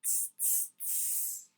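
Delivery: soft whispered tss sounds; monkey tsk-tsking. Acted. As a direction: tsk back like cheeky monkeys. Monkeys mock back.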